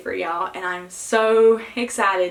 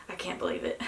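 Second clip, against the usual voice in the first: whispered disbelief; 9 dB quieter, faster than usual. Real, not acted. Reacting to positive test.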